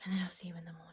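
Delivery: whispered goodnight; whispering. Real, not acted. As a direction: whisper the sign-off. Late night sign-off.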